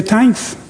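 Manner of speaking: "Thanks" said as tanks, hard T with no th sound; "Thanks" spoken with a plain T, no H; Thanks without the H. Shown as a demonstration. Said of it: "without the H".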